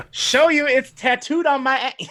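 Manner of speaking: laughing. Real, not acted. Game master voicing the paladin's reply, laughing. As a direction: barely get the line out through laughter.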